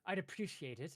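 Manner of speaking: very high, loud delighted little clerk; squeaky high pleading clerk voice. Acted. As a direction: gush with relief and beg. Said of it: "and he kind of says".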